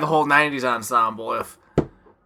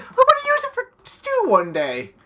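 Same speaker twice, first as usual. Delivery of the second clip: mock high voice. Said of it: "He's like".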